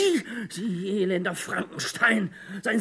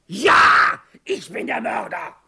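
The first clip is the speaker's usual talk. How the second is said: shouted confession; 6 dB louder, slower than usual. Acted. Confession with revolver.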